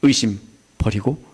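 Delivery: easing down into calm reassurance; Jesus calming the ruler's fear; reassuring Jesus. Retold or imitated. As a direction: soothe the frightened father. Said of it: "이겁니다".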